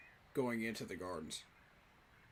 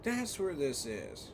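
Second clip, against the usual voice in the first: surprised; 4 semitones lower, much slower than usual. Real, not acted. Sudden realisation.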